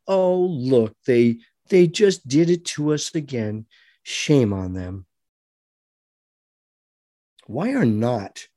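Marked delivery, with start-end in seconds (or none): 0.1-5.0 self-pitying whine. Pretend. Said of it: "pity ourselves and say".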